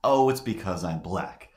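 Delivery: retold yell at a held-back volume; half-hearted imitation of screaming; mild mock scream. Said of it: "But she screams".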